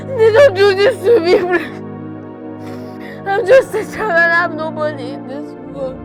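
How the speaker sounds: loud crying, pleading through tears; sobbing plea. Acted. Orphaned child sobbing to grandmother, crying plea. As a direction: sob it out, begging her not to leave.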